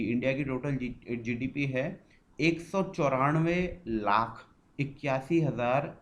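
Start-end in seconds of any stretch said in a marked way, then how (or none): 2.4-5.9 slow reading of a figure. Shown as a demonstration. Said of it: "इसे ऐसे ही पढ़ा जाता है".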